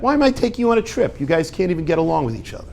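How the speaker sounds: fast, lightly voiced annoyed parent; a hint of exasperated parent. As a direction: rattle it off like a fed-up dad. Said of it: "What do the parents think?".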